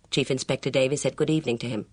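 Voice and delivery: fast, even narrator's read; story narration. A narrator's reading. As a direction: tell it straight, briskly.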